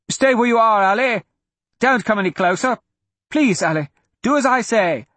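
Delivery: put-on high, insistent warning to a child; urgent pleading. A narrator's reading. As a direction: plead with her to stay back. Father urgently keeping child from danger.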